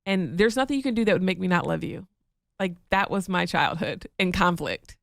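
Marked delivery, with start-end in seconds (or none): 0.0-2.1 tender mom. Retold or imitated. Wife imitating her mom comforting her. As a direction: soothe like a loving mother. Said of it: "my mom would sit me down and be like".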